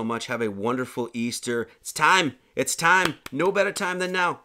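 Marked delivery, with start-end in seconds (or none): 1.8-4.4 urgent exhortation. Real, not acted. Exhorting listeners to be reborn.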